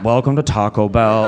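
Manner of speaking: slow, reluctant mumbled "Welcome to Taco Bell"; late-night greeting. Shown as a demonstration. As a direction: drag the greeting like a bothered night worker. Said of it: "if you go late at night".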